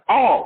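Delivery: "All" said alone as an emphatic word; single out "All" with firm emphasis; stress on All. Shown as a demonstration. Teacher singles out the key word of his creed, stressed "All". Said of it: "Emphasis on the word all".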